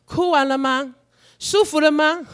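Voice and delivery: lightly voiced gentle coaxing; pastor soothing a child. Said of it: "牧师常常跟小宝说". (牧师哄孩子般轻声问)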